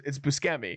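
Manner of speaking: Buscemi said "boo-SKEM-ee" with a hard k; butchered name. Retold or imitated. Actor correcting Seth as a callback, Buscemi with hard SK. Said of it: "there's a callback to that".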